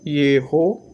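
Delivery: Yerro said as one sounded-out syllable group; syllable demonstration. Shown as a demonstration. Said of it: "a gente tem a primeira sílaba".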